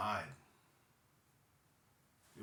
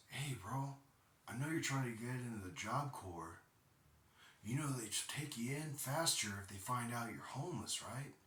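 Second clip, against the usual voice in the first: higher-pitched casual bro talk, lightly mimicked; retold brother's pitch; 4 semitones higher than usual. Brother pitches the shelter to his sibling, lightly mimicked casual persuasion. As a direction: lightly imitate a brother making a helpful-sounding suggestion.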